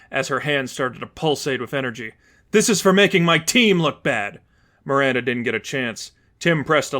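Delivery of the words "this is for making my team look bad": louder, higher vengeful yell; vengeful cry. Acted. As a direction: strike back for the team. Miranda attacks with energy.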